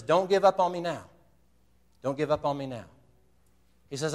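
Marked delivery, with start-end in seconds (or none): 0.0-1.0 urgent plea. Retold or imitated. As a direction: drive him on like a coach on the sideline. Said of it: "And Coach says".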